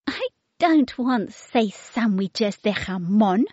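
a hint of a fussy toddler; light baby voice. Baby refuses the sandwiches in a lightly voiced toddler tone. Baby's voice.

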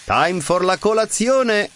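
high, lightly voiced grandmother; a kindly nonna calling to breakfast; Nonna's voice. A narrator's reading. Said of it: "she said".

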